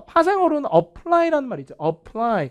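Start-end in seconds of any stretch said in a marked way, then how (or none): 1.8-2.5 "apply" with a light start and punched "ply"; stress on last syllable. Shown as a demonstration. Teacher showing the derived verb, back-stressed "apply". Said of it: "강세 뒤에 있죠".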